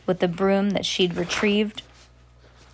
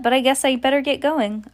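higher-pitched polite escape; nervous; 6 semitones higher, 3 dB louder than usual. Acted. Scared girl making excuses to the witches, nervous. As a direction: raise the pitch, edging out nervously. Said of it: "died into a nervous chuckle".

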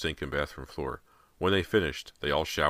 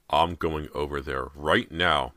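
firm declaration; 5 dB louder, slower than usual. Acted. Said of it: "Mister Fraser declared".

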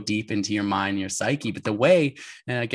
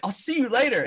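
high, amused replay of himself; mock parting shot; 12 semitones higher than usual. Laughing at saying it to a man pulling a sled, high mock goodbye. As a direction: send up your own huffy goodbye.

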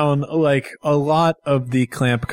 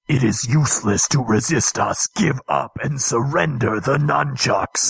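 megaphone announcement, lightly voiced; a hint of a loudspeaker voice; through a megaphone. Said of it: "a dude on a megaphone behind you".

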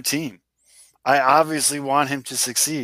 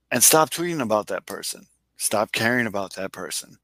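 super serious voice. Acted. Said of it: "Do, like, a super serious voice".

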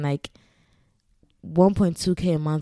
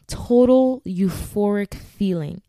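dreamy; 3 semitones higher, 4 dB louder, slower than usual. Real, not acted. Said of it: "I'm so dramatic".

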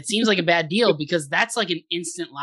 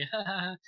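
small, soft demonstration laugh; soft, unremarkable put-on chuckle; normal laugh; 4 semitones higher, 9 dB quieter than usual. Shown as a demonstration. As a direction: give a short, quiet token laugh. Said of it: "like, a normal laugh".

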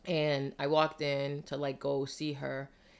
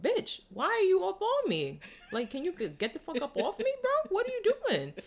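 mock angry outburst. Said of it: "about to flip out and spaz".

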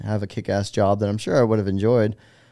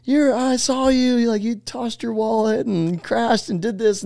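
higher, slow, star-struck retelling; excited fans; 13 semitones higher, slower than usual. Retold or imitated. Dorm guys telling him they saw his crash, higher and slow star-struck voice. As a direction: gush like you just spotted a star.

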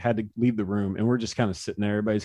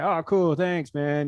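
Josh Hader impression; 5 semitones higher, much slower than usual. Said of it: "your Josh Hader impression".

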